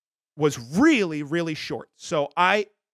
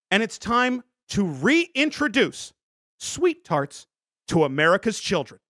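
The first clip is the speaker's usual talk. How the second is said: ad read. Acted. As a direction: read it like a stiff ad. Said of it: "I'm gonna read the copy".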